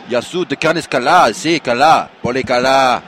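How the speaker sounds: emphatic attempt at Greek speech; Greek accent. Shown as a demonstration. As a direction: show off a put-on Greek accent. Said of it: "I can do it in Greek accent".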